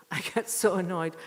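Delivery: repeating it through a laugh; half-laughing repeat of her complaint. Real, not acted. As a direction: laugh as you say it again. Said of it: "I just get so annoyed".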